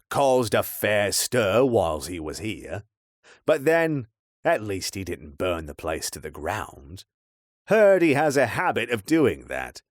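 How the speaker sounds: put-on weathered old local telling gossip; old man's voice. Old man reports on Blackthorn.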